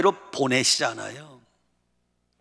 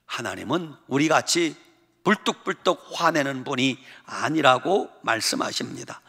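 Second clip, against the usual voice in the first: normal talking voice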